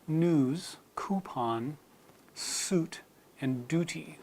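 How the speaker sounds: news coupon suit duty as nooz koopon soot dooty; no y glide in news, coupon, suit, duty; American no yod. Shown as a demonstration. Teacher modelling the American word list. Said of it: "So those words in American English are".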